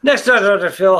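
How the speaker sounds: announcer voice for a daytime talk show teaser; TV promo voice. Pretend. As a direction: sell it like a TV trailer.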